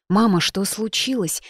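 put-on startled boy asking his mother what happened; frightened. Son Kit frightened by his tearful mother, alarmed question. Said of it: "испуганно спросил Кит".

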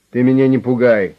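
loud, menacing warning; a loud threat from a gangster boss; threatening. A narrator's reading. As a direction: warn him off with a threat. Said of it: "с угрозой сказал директор".

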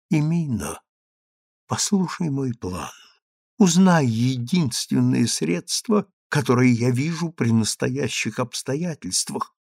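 a hint of a shaking, strange voice; trembling voice. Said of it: "дрожащим, как бы не своим голосом".

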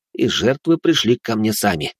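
usual speaking voice

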